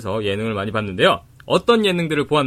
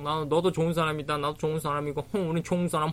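mocking flirty idol; 5 semitones higher than usual. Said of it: "막 그런 얘기 하잖아".

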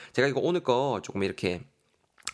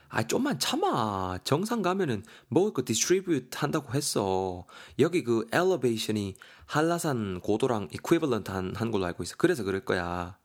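coaxing hiking companion. Acted. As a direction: lightly urge a tired friend to hold on. Companion coaxing the tired hiker.

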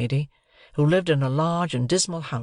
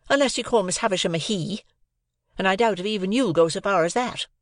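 sarcastic; 6 semitones higher than usual. A narrator's reading. Sister mocks Joe.

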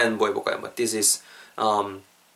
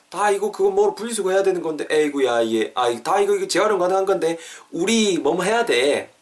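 scolding friend; 5 semitones higher than usual. Acted.

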